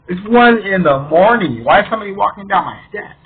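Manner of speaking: retold startled disbelief; alarmed disbelief. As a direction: act out baffled alarm at an intruder. Acting out alarm at night intruder.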